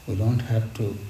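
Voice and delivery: normal talking voice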